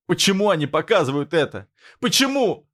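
rising from high to very high cry; high hysterical scream; hysterical shout. A narrator's reading. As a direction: break into hysteria. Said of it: "выкрикнула она, срываясь на истерику".

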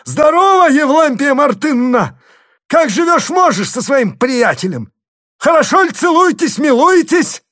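very high, loud thundering greeting; father thundering mockingly at his daughter. A narrator's reading. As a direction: boom it down from the roof. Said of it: "загремел сверху Харлов".

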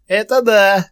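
very high, loud gleeful goblin; a goblin suddenly enjoying itself; cheered-up goblin. A narrator's reading. Goblin mocking the captors, gleeful high goblin voice. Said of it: "отозвался повеселевший гоблин".

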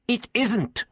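sharp, curt denial; snapped. Acted. The Doctor snapping back at Ian, a curt snap. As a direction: cut him off with a snap. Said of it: "the doctor snapped".

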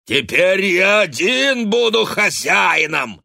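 high, loud, slow bellow; furious yell. A narrator's reading. Drunk father yelling at his family.

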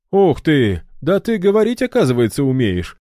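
high, loud, relieved outburst; relieved exclamation. A narrator's reading. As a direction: let the tension drop with a cry. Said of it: "С явным облегчением высказался Ильдар".

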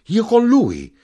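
very high, loud shocked question; distraught cry. A narrator's reading. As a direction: cry it out, beside yourself. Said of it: "gridò stravolta mia madre".

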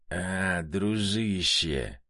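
put-on slow, slurred drunk greeting; lightly voiced drunk friend; drunken drawl. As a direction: drag the words out like a happy drunk. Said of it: "протянул пьяный товарищ".

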